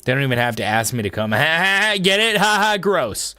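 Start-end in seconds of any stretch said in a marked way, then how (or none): 1.3-3.3 laughing. Real, not acted. Laughing at own joke.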